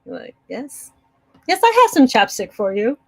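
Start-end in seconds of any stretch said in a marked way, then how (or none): 0.5-0.9 very soft, held-back "yes"; mock modesty, much softer; trying not to gloat. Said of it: "You try not to gloat". 1.5-3.0 mock-casual offer, higher pitch; lightly acted restrained smugness; trying not to gloat. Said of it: "You try not to gloat".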